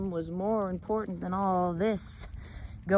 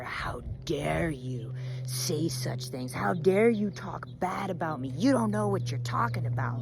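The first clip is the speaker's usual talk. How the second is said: angry. Acted. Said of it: "they would go with anger".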